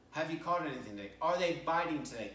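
quick, offhand question from the pier; casual bystander question. Retold or imitated. A passer-by on the pier asks the fishermen, quick and offhand. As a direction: toss it out lightly in passing. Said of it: "you can't help but ask".

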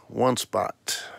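hushed whisper. Real, not acted. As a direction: breathe it secretly. Teasing aside after announcing.

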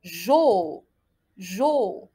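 "Jo" low, with a long o; syllable demonstration. Shown as a demonstration. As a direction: model "Jo" as zh plus held o. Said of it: "On continue?".

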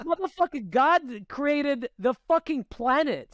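imitating his own stunned scolding; exasperated retort. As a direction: spell it out like he's lost his mind. Retold exasperated reply.

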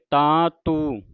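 "ਤਾਂ ਤੂੰ" with long nasalised vowels. Shown as a demonstration. Teacher demonstrates the bindi, nasal "ਤਾਂ ਤੂੰ". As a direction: hum the vowels of "ਤਾਂ ਤੂੰ" through the nose. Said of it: "ਪਹਿਲਾਂ ਬਿੰਦੀ ਦੇ ਨਾਲ".

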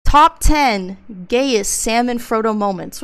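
loud, slow title announcement; proclaiming the countdown title; announcing the title. Real, not acted. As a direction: read it out like a headline.

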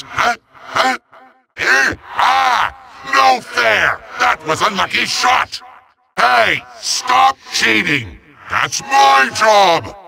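high, indignant protest, like a thwarted tyrant; whine-shout as a sore-loser villain; petulant villain outrage. Acted. Villain protests at being hit.

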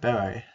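beret said like "berry"; own pronunciation. Shown as a demonstration. Friend defends own way of saying beret, berry-like pronunciation. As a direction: say beret close to "berry", stress up front. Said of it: "That's how you pronounce it".

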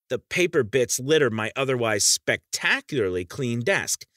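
mild stress on "spectacularly clean desk"; emphasis on clean desk. A narrator's reading. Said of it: "I say that with emphasis".

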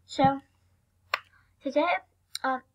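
talking while chewing gum; words round a wad of gum. Real, not acted. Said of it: "I'm chewing gum".

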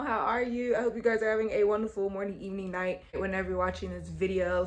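polished anchor-style greeting, lightly done; a hint of a TV presenter; mock news anchor intro; news reporter voice. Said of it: "talking like a motherfucking news reporter".

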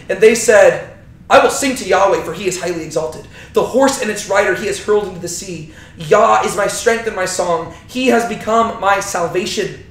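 measured, emphatic Bible reading; scripture reading. Acted. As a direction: proclaim the song of Moses. Reads Exodus 15 song aloud.

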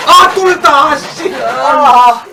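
yelping at the spicy sting; loud, high laughing yelp; mouth burning from spicy food. Real, not acted. Cooking spicy sauce, eyes stinging.

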